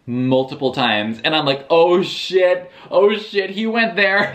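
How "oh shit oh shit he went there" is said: shocked excitement. Retold or imitated. Reader reacting to scene twist.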